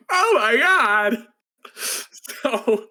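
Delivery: slow, laughing through the words; can't get it out for laughing; real laughter. Real, not acted. Vlogger cracking up at the anime plot, laughing. Laughing at her own retelling.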